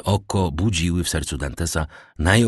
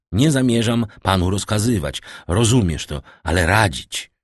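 louder, insistent correction on "rozkazywać" and "radzić"; emphatic clarification; 4 semitones higher, 4 dB louder than usual. A narrator's reading. Wilford correcting Dantes, emphatically setting "radzić" against "rozkazywać". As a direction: lean firmly on "radzić" as the right word.

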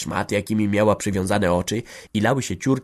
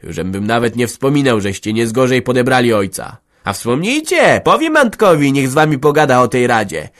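louder, rising angry threat; hissed threat; 3 semitones higher, 7 dB louder than usual. Acted. Rebuffed man threatening Hanka with her husband. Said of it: "syknął".

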